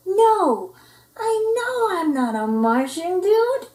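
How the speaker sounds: high, loud exasperated reply; exasperated correction. Acted. Pup correcting the Martian, high and exasperated. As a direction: correct him impatiently.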